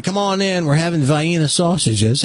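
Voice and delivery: VIENNA as "vy-EE-nuh"; mother's hillbilly pronunciation. Retold or imitated. Mother calling kid in to eat, "vy-eena" for Vienna. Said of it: "well, she'd say".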